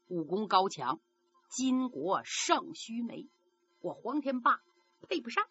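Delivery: lightly voiced young hero, earnest then subdued; a hint of a humble hero turning sad; Huang Tianba's earnest refusal. Hero turning down the old man's daughter, humble and earnest.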